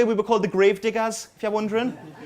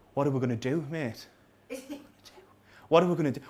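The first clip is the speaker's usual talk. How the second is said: muted worry; 5 semitones lower, 8 dB quieter, faster than usual. Acted. Voicing flatmate mid-failed match.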